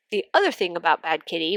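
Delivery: congested from cat allergies; blocked nose, speaking normally; stuffy nose. Real, not acted. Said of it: "which is why I sound like this".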